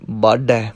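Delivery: ਬਾਡੈ with the dd pressed slightly; slight pressure. Shown as a demonstration. Teacher demonstrates ਬਾਡੈ, gently pressing the dd. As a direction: lean a little on the heavy d of ਬਾਡੈ. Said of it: "ਥੋੜ੍ਹੀ ਜਿਹੀ ਦਾਬ ਦੇਣੀ ਪਵੇਗੀ".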